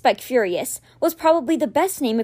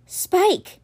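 breathed in excitement; 7 semitones higher than usual. A narrator's reading. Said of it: "he breathed again".

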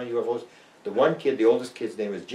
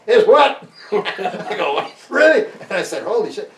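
much higher and louder, incredulous; stunned disbelief; 11 semitones higher, 8 dB louder than usual. Retold or imitated. Young researcher hearing the boss was crazy, stunned and much higher. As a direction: react as if floored.

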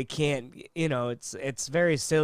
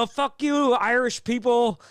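higher, mock-hostile jab; 7 semitones higher than usual. Imagined customer insulting McDonald's staff, mock hostile. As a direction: toss off a hammed-up insult.

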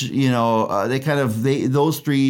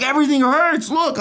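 much higher and fast, desperate complaint; whiny patient; 12 semitones higher than usual. Acted. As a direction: blurt it out like a panicked patient. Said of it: "He's like".

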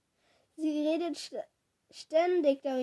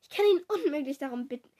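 higher-pitched complaint, building; whining; 5 semitones higher, 4 dB louder than usual. A narrator's reading. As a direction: whine in self-pity. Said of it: "jammerte Kara". (jammernd, mit gehobener Stimme)

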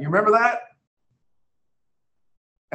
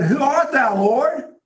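awed question; 8 semitones higher, 3 dB louder, slower than usual. Retold or imitated. Saul answering the heavenly voice.

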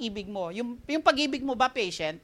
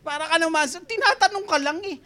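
laughing; 7 semitones higher, 4 dB louder than usual. Real, not acted. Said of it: "Relate much?".

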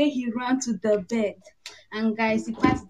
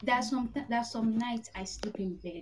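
soft, hushed dreamy confession; 6 dB quieter than usual. Real, not acted. Fan confiding dreamily to co-hosts, very soft.

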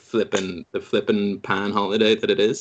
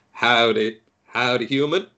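put-on Texan accent. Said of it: "it was in a Texan accent".

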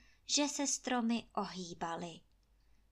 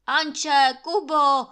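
loud, high summons; calling loudly; 5 semitones higher, 14 dB louder, slower than usual. A narrator's reading. Sick landlord shouting for Anče and Kubo, loud. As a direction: holler for the servants from bed.

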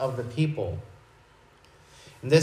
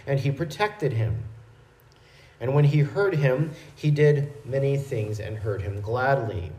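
measured, steady Bible reading; scripture reading. Acted. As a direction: read the passage plainly but with care. Reads scripture passage aloud.

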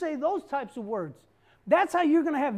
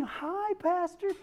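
sweet hello; 3 semitones higher, 5 dB quieter, slower than usual. Retold or imitated. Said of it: "nothing wrong with her voice".

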